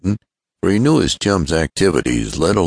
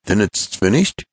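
mildly eager, slightly raised question; 7 semitones higher than usual. A narrator's reading. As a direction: ask with a touch of eagerness. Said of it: "cried Ned eagerly".

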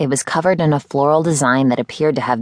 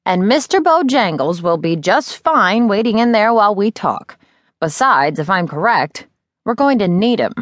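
higher, lightly voiced older teacher, brisk and knowing; a mentor who knows more than she says; Miz Terwilliger; 7 semitones higher than usual. Older teacher telling Eddie about her cat, lightly voiced and brisk.

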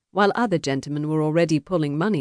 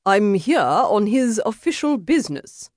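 higher-pitched, huffy insistence; testy; 6 semitones higher than usual. A narrator's reading. Emissary explaining his errand to a duelist, testily. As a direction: insist on your authority, testily. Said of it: "Mister Hopscotch said testily".

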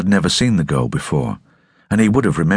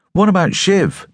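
timid suggestion. Acted. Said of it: "seemed immediately embarrassed to have spoken".

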